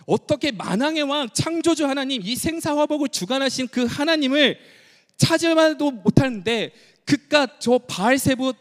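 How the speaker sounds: God's aching lament. Acted. God lamenting to Israel, heartbroken rebuke. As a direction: ask it as if your heart is tearing. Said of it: "하나님은 마음이 막 찢어질 듯 아파하면서 그 마음을 묻고".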